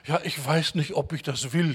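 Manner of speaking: mildly imitated indecision; mock confused waverer. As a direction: lightly play someone who can't decide. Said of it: "und reden so verwirrt".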